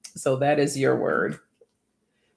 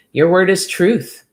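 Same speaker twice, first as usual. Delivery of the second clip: excited announcement; 4 semitones higher, 8 dB louder than usual. Real, not acted. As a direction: announce the word loud and proud, a little higher. Announcing the drawn word.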